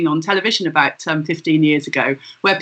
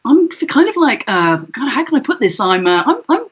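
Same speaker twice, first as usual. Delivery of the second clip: pitched way up, halting, fussy overacted improv; rambling improvising actor; 7 semitones higher, 4 dB louder than usual. Actor padding the script line in a casting, high and halting. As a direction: ham up an actor mangling a simple line. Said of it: "They would change it to".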